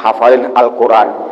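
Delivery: put-on calm the boy kindly; reassuring kiai.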